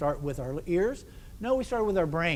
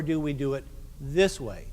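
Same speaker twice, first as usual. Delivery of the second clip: lowered voice; 3 semitones lower than usual. Shown as a demonstration. Conductor showing band another way to emphasize, lowered voice. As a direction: drop low and weighty on the final words. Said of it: "or do I lower my voice".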